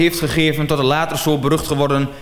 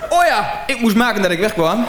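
flustered laughing; 5 semitones higher than usual. Acted.

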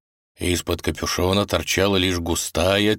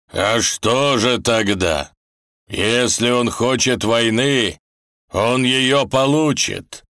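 slow, heavy threatening voice; menacing threat; 4 semitones higher, 4 dB louder, slower than usual. Acted. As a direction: threaten war slowly. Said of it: "грозно сказал собеседник".

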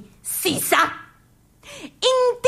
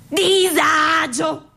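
disagio; much slower than usual. Acted. Slow drawn-out cry of unease.

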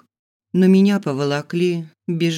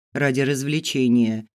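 ordinary delivery, nothing marked

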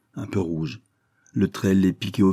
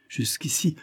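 dramatic whisper; 9 semitones higher, 4 dB quieter than usual. Acted. Captain teasing the table with a hushed pause. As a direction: hush it for effect.

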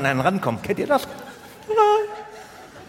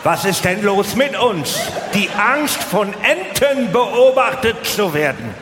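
mock outrage at our own fears; exasperated outburst; 3 semitones higher, slower than usual. Real, not acted. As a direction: throw up your hands and shout at the crowd. Comic outburst at the audience.

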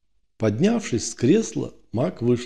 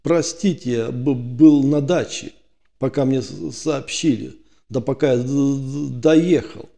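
scared stammering; 2 semitones higher than usual. Acted. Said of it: "его заметно трясло".

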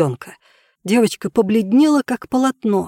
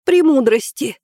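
put-on little girl voice; 7 semitones higher than usual. A narrator's reading.

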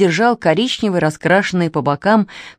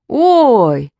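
delighted gasp; 4 semitones higher, 5 dB louder than usual. Acted. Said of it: "восхищённо выдохнул Костя".

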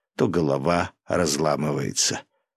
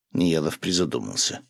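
ordinary delivery, nothing marked

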